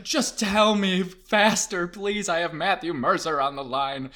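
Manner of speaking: high, loud, stretched-out plea; impatient pleading. Retold or imitated. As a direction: beg a slowpoke to hurry up. Impatient with slow directions.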